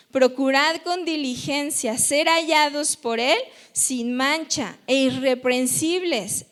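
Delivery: lectura solemne en voz alta; lectura bíblica. Acted. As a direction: lee la Escritura frase por frase, con énfasis. Lee en voz alta la Escritura. (lectura bíblica solemne)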